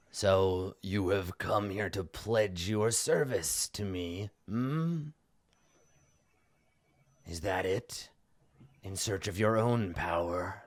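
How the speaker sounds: lightly voiced, probing villain; imperious villain. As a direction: question the visitor grandly, unhurried. Game master voices the NPC.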